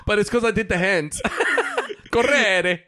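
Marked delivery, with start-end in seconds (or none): 2.1-2.8 hammed-up Italian, pitched high; theatrical Italian accent; mock Italian accent. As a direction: laughingly overdo the Italian with rolled R. Repeats hammed-up Italian word.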